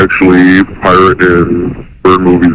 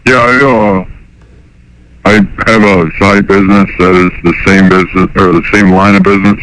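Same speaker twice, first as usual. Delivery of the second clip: caller voice through a pitch-changing harmonizer; electronically disguised phone caller. Real, not acted. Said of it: "so his voice is disguised".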